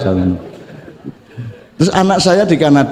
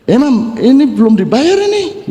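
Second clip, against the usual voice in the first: Sulawesi creditor; 8 semitones higher than usual. Retold or imitated. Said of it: "orang Sulawesi kan ngomongin ngono kuwi".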